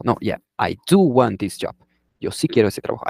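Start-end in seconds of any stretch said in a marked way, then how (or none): 0.0-1.8 "do" in "I do want this job" stressed in a protest. Shown as a demonstration. Answering someone who says you don't want the job. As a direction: insist on "do". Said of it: "es un énfasis".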